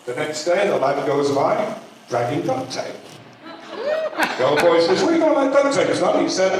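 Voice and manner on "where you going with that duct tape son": put-on high, calling voice of an old Southern man; a touch of an old porch-sitter hollering. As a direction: call out to the boy from the porch. Old man calls to passing boy.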